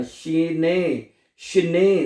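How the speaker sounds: शने with the last "ay" held long; long final vowel. Shown as a demonstration. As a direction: slowly stretch the ए in शने. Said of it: "ए को थोड़ा सा लंबा करना है".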